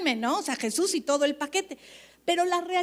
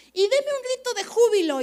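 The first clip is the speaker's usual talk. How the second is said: mock worship leader; 9 semitones higher, 7 dB louder than usual. Mimics worship leader's call.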